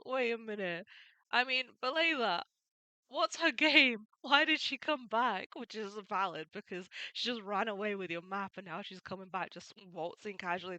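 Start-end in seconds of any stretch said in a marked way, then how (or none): 0.1-5.5 louder and higher, a pirate captain turning suspicious; suspicious Buggy. Retold or imitated. Captain questions crew about the returning thief, louder. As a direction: bark the doubts at the crew. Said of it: "And then he goes".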